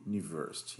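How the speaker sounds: university said softly in English, starting with a YU sound. Shown as a demonstration. Teacher demos university to students, soft and clear. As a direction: drop your voice and say university the English way. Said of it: "eu falo".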